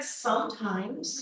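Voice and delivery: wry laugh. Real, not acted. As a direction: let Sometimes out slowly with a laugh. Wry answer about her teenager.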